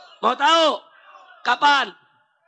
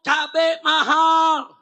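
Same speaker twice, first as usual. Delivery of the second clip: higher, drawn-out protest cry; imitating protesting mothers; 4 semitones higher, 4 dB louder, much slower than usual. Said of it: "Ibu-ibu teriak, protes pemerintah". (menirukan teriakan protes ibu-ibu)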